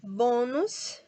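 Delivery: "Bônus" with a firm, drawn BÔ; stress on bo. Shown as a demonstration. Teacher points out the syllable, "Bônus" stressed on BÔ. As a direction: lean on the first syllable of "Bônus". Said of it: "nós temos aqui o bo".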